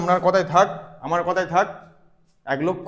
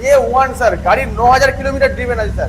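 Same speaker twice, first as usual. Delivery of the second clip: pitched up over engine noise; raised voice; 4 semitones higher, 4 dB louder than usual. Real, not acted. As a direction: project over the revving bike. Talking over a revving engine. (ইঞ্জিনের আওয়াজ ছাপিয়ে গলা তুলে)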